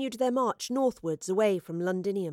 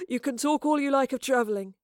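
teasing, higher-pitched smirk; 5 semitones higher, 4 dB louder than usual. A narrator's reading. Soldier teasing the laughing girl, smirking. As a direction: tease with a smirk in the voice. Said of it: "he smirked".

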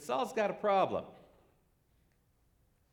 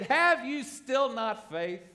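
slow, stern rebuke, a little louder; sharp rebuke; 4 semitones higher, 5 dB louder, slower than usual. Retold or imitated. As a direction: drag out each word like a disappointed teacher scolding. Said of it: "sharp, sharp rebuke".

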